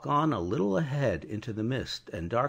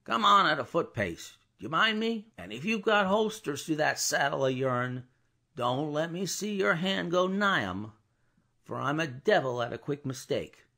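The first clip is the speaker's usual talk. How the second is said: stern guard; 6 semitones higher than usual. Acted. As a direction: warn the rider off firmly. Guard warning the rider.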